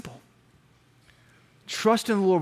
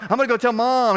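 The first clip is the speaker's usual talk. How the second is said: mock tearful tattling, raised pitch; breathless crying; 4 semitones higher than usual. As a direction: whine it as a winded, crying kid. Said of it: "talk in that can't breathe, crying state".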